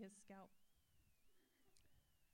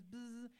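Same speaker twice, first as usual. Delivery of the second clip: vocal buzzing noise; imitated clipper buzz.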